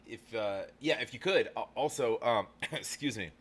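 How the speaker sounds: talking with a mouth full of chips; words blurred by salty chips; eating chips. Real, not acted. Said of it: "I was eating chips that were salty. It's, like, hard to talk".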